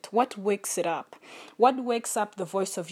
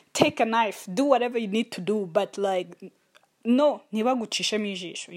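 mock yell. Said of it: "the voice of trauma is just yelling".

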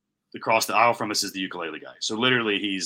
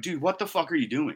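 higher-pitched exasperated demand; retold snapping; 6 semitones higher than usual. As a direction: snap at him, at normal volume. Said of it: "I snap a couple times".

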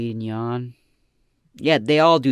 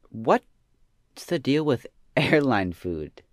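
slow, drawn-out comic setup; leaning into the punchline with a laugh; stand-up joke; slower than usual. Shown as a demonstration. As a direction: deliver it like an old stand-up bit. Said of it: "That was a good joke".

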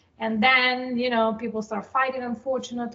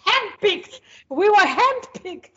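high, loud proud brag; proud boast; 4 semitones higher, 5 dB louder than usual. Real, not acted. Guest bragging to the host, proud and high. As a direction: show off being handpicked. Boasting about elite class.

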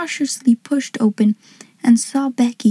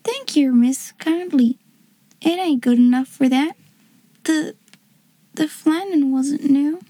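small, halting, slightly raised voice; humble servant girl, overcome; 4 semitones higher than usual. Acted. Servant girl thanked for her present, humbly overcome. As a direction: modest dialect, trailing into apology.

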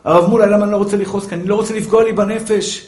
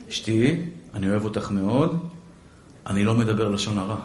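much softer and lower, loving no; tender refusal; 13 semitones lower, 10 dB quieter than usual. Retold or imitated. Husband lovingly refusing his wife's gossip request. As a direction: turn her down lovingly.

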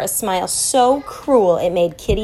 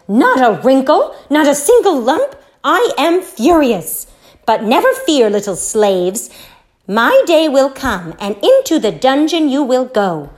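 furious yell; 5 semitones higher, 5 dB louder than usual. Acted. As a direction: roar it out like a wicked queen. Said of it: "She yelled".

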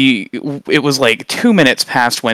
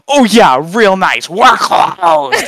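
put-on high, loud croaking old hag; witch hag voice; 7 semitones higher, 5 dB louder, much slower than usual. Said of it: "ancient witch hag voice".

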